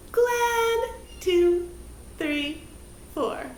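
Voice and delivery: glad called out high, then counting down; bright glad count. Shown as a demonstration. Teacher calling the glad shape out high. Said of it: "glad shape held four counts".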